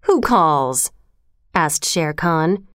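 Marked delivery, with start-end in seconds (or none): 0.0-0.9 lightly voiced drowsy tiger; a mild snarl from a just-woken tiger; understated sleepy growl. A narrator's reading. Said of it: "the sleepy snarl of a full-fed tiger".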